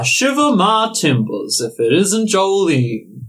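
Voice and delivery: lightly voiced old pirate greeting; a hint of a salty sea dog, slow; pirate father. Pirate father greeting his long-lost daughter, lightly voiced. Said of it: "your father turns around and says".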